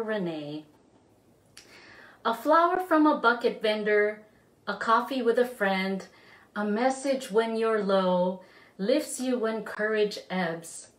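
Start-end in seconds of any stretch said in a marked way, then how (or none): 2.2-10.9 measured recitation with pauses between lines; poem read aloud to a friend; poetry reading. Acted. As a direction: read it gently, as a gift to a friend. Reads poem for Renee.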